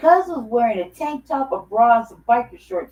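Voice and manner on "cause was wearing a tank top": usual speaking voice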